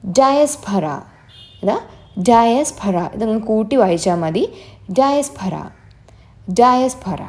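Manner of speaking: ഡയസ്പൊറ said clearly with stress on the first part and a falling end; model pronunciation. Shown as a demonstration. Teacher modelling ഡയസ്പൊറ for students, clear and falling. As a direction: say ഡയസ്പൊറ slowly so it can be copied. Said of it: "എന്തായിരിക്കും pronunciation?".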